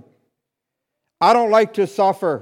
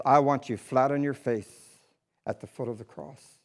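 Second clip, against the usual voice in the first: voice of God; 8 semitones lower, 8 dB quieter than usual. Retold or imitated. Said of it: "word for word, is".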